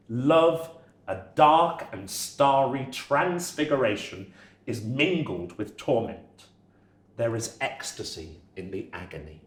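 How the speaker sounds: slow, reverent reading of a quote; poem reading. Acted. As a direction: lay each line down slowly like poetry. Reads Victor Hugo quotes aloud.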